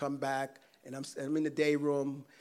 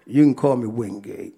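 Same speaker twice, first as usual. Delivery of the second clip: out loud; 4 semitones lower, 10 dB louder than usual. Retold or imitated. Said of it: "He kinda whispered and said".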